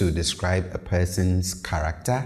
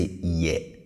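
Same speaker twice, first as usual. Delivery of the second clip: "ye" said slowly on a low tone; 3 dB quieter than usual. Shown as a demonstration. Teacher showing learners how to pronounce it, low tone. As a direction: keep "ye" down low, falling. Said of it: "pay attention to how I pronounce this".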